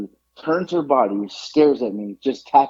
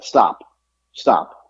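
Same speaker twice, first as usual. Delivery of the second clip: low, firm command to stop; imitating a manager calling a halt; 4 semitones lower, 3 dB louder than usual. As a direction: cut someone off with two separate low words. Manager puts hand up to halt her.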